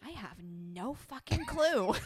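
slow quote broken by laughter; laughing. Retold or imitated. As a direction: laugh while lying innocently. Sister voiced, laughing.

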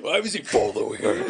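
laughing while repeating the question. Real, not acted. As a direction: giggle through the question. Repeats friend's line laughing.

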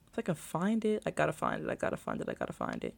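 trailing off into a whisper while searching; under-the-breath search mutter fading out. Real, not acted. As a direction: mutter it to yourself, dying away to breath. Muttering while searching her posts.

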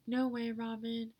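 amazed younger self. Retold or imitated. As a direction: gush in awe as your kid self. Voices amazed ten-year-old self.

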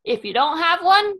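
Woody quote. Retold or imitated. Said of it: "quotes from him".

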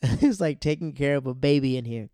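mock scolding of a childish friend; roommate scolding. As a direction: drag it out like a fed-up roommate. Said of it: "And Keith is like".

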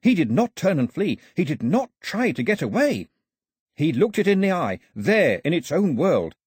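high, breathless tale to the crowd; dramatic storytelling. A narrator's reading. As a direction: spin a wild tale, wide-eyed. Pilou dramatically tells shark story.

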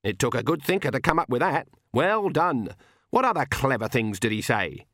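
a hint of a sardonic old woman; lightly voiced crotchety granny, mock-admiring. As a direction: lightly play granny handing out grudging praise.

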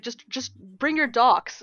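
slowed right down, each word laid out; a mock patient sister, drawn out; slow quoted advice. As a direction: spell it out slowly like it's obvious. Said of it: "my sister was like".

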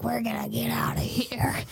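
hushed whisper. Retold or imitated. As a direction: sneak it out under the breath. Sneaking escape.

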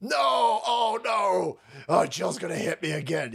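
mock panicked staffer. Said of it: "She's like".

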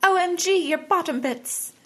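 very high hammed-up gasp of shock; mock exclamation. Co-host joking about the bottom bits, high mock exclamation. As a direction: squeal it as a running gag. Co-host replays the OMG joke.

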